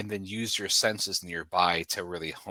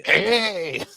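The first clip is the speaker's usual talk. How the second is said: character shout; 8 semitones higher, 5 dB louder than usual. Acted. Greeting in a character voice.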